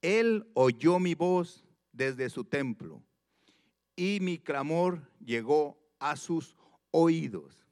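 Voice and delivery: slow, weighty reading of the verse; slow scripture reading. Acted. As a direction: read it out unhurried and solemn. (lectura bíblica lenta)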